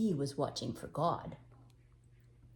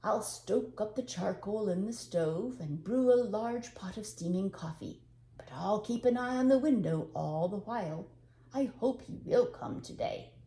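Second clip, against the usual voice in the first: cheerful; 3 semitones higher, 4 dB louder than usual. Acted.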